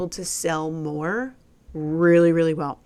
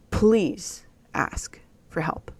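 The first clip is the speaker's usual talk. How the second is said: whisper; much slower than usual. Real, not acted. Plea whispered to the viewers.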